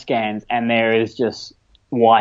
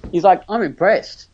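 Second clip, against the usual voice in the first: amazed doctor; 8 semitones higher than usual. Retold or imitated. Retold doctor amazed at running.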